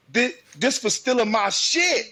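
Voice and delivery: high, loud mock fight yell; loud as possible. Parent showing daughter her fight line, loud. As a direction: belt it out with amusement. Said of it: "say it loud, loud as you can".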